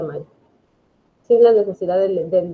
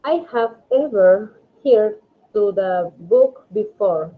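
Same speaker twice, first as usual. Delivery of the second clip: slow reading; slower than usual. Shown as a demonstration. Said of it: "número dieciocho".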